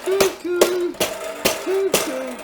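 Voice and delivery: very high, loud "cuckoo"; mimicked cuckoo call. Imitates cuckoo call mid-story.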